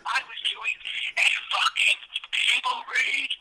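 yelling. Acted. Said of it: "I am fucking yelling".

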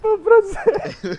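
high, slow hammed-up French chef accent. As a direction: drawl "Pan francés" like a French chef. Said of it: "Vamos a hablar con acento francés".

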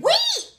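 high-pitched "Wait!" drawn into a "wheet"; mock stunned cry. Man stunned at being turned, high mock squeal. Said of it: "Bitch, W H E T".

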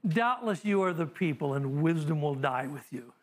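a touch of dry sarcasm, understated; sarcastic. Acted. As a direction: let the words drip with mild sarcasm. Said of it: "That is just dripping with sarcasm".

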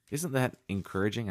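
dry, ironic question; sarcastic. Real, not acted. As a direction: ask it with mock cheer, meaning the opposite. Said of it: "I'm being sarcastic here".

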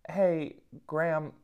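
mock wife voice. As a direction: mimic her sweetly demanding request. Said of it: "That's not how she sounds, but that's how I took it".

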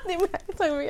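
half-voiced imitation of a ratchet mother; ratchet Vietnamese cursing. Friend acting out an angry mom, mock ratchet cursing. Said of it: "Vietnamese style ratchet".

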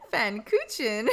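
"Pfannkuchen" Americanized as fan-KOO-chen; butchered German. Real, not acted. Podcaster attempts a German dish name, butchering "Pfannkuchen" as fan-KOO-chen. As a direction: say "Pfannkuchen" with an English ch as in church. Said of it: "I'm butchering".

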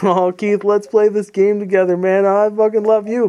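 flattering. Retold or imitated. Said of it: "Buttering him up".

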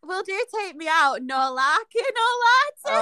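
put-on Northern game show host accent, done for fun; Paddy McGuinness Northern accent. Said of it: "I don't know why I put an accent on".

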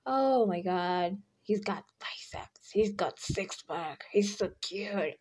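slow, half-whispered gushing; dreamy swooning. Pretend. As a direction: drool over him slowly. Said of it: "or you just".

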